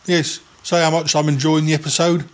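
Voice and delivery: lightly voiced rambling yeti uncle; a hint of a dithering old uncle; Yeti Uncle John. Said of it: "It's me, Yeti Uncle John".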